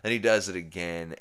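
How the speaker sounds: ordinary talk, nothing marked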